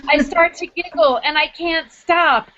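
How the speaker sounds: reading her essay aloud, lively and wry; story reading. Acted. Author reading her own chapter to the audience, lively.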